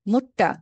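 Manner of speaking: "মুট্টা" ending in an open A; final R as A. Shown as a demonstration. Teacher showing student the final German R, said as A. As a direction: finish "মুট্টা" on a vowel, no R. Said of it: "এখানে কি আর মতো উচ্চারণ".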